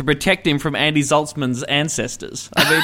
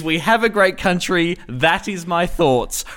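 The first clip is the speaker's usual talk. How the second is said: mock solemn motto; slower than usual. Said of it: "The new official motto".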